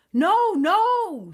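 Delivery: high, loud frantic giant protest; alarmed giant. A narrator's reading. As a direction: stop her in a panic.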